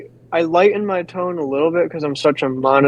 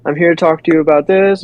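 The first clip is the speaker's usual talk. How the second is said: upbeat door-to-door pitch; a light salesman's greeting; friendly sales pitch; 2 semitones higher than usual. Shown as a demonstration. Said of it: "I might go like".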